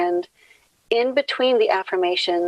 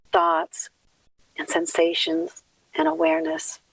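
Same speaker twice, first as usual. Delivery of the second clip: measured prayer with long pauses; opening prayer. Acted. Leader gives thanks for time together, measured prayer.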